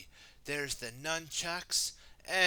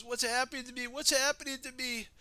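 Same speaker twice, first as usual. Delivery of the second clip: high, loud panicked wail; 11 semitones higher, 5 dB louder, faster than usual. Acted. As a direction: wail as power overtakes you. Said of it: "Samuku wailed".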